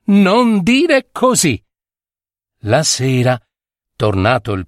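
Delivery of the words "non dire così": high, very slow warning; little voice. A narrator's reading. Little voice answers for the last time, high and slow. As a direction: stretch it out in a high voice. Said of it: "La vocina rispose".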